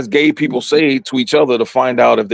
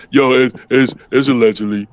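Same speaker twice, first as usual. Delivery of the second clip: lightly put-on dumb-guy act; lower, hesitant mock-dim delivery; Eddie Murphy; 4 semitones lower than usual. Storyteller adding the disclaimer for the channel, lightly played dumb. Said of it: "I'ma do the Eddie Murphy".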